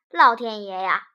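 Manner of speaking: sudden loud exclamation; startled cry. A narrator's reading. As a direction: gasp it out in shock. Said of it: "老何惊叫道".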